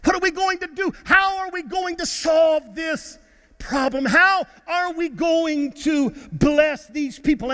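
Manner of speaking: high, mildly agitated acted questions; worked-up questioning. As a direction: press each question as a troubled disciple. Voices disciples' troubled questions.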